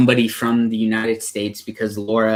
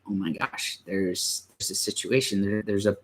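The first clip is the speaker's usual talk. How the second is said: choked up, quiet; 6 dB quieter than usual. Real, not acted. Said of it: "Getting emotional thinking about it".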